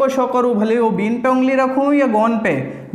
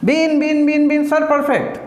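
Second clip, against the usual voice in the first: higher, quick pupil reply; student answering sir; 3 semitones higher, slower than usual. Pretend. Teacher acting a student drilling answers, eager and higher. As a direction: rattle off the answer like a keen pupil.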